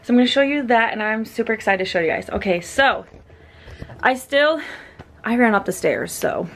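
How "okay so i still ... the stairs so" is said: breathless after running upstairs; puffing between words; out of breath. Real, not acted. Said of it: "that's why I'm out of breath".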